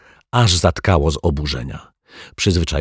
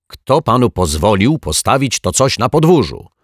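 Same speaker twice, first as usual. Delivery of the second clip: raised, higher shout at a neighbour; angry yell; 5 semitones higher, 4 dB louder than usual. Acted. Mr Mietek yelling at the lodger about the barrel, loud. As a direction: yell it up at him, outraged. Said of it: "wrzasnął kilka godzin później pan Mietek".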